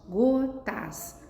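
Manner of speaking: "gotas" partida em go, tas; separação silábica. Shown as a demonstration. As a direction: pronuncie "gotas" em duas batidas separadas. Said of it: "São palavras formadas por duas sílabas". ("gotas" silabada para a turma)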